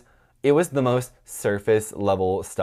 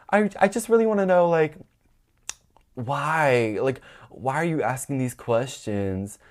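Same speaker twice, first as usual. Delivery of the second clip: mocking professor; 5 semitones higher than usual.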